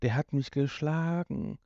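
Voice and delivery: flatly said ouch, no feeling; lightly voiced bland complaint; deadpan mock line. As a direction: parody a dull radio play. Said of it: "keine Atmosphäre und dann wird nur gesagt".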